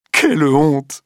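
Quelle honte! shrieked high and loud; crying out. A narrator's reading. Clotilde shrieking "Quelle honte!" at her lover, loud. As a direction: fling "Quelle honte!" out in outrage. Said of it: "crie Madame de Marelle".

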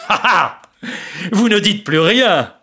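mock the silenced prisoners; gloating laugh. Marescal gloats over captives.

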